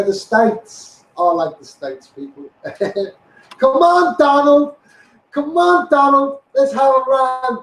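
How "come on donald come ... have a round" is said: loud, high rallying call to Donald. Real, not acted. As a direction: cheer him on like at a rally. Cheering Trump on to viewers.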